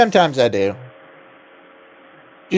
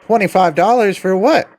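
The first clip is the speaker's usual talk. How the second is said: outraged disbelief; 8 semitones higher than usual. Retold or imitated. Mock outraged customer quote.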